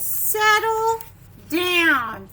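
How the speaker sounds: firm loud settle down; firm parent. Acted. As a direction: call it out to a bouncing child. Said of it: "It says".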